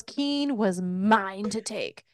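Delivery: slow, drawn-out possessive claim; feral possessiveness. Retold or imitated. Her feral brain staking a claim on Keen, possessive. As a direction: stretch it out like a primal claim. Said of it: "the feral brain right there".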